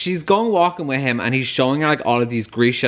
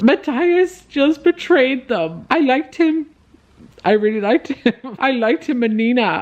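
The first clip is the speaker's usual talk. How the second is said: upset, near tears; 11 semitones higher than usual. Real, not acted. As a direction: mourn a favourite character's betrayal. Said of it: "I'm so sad right now".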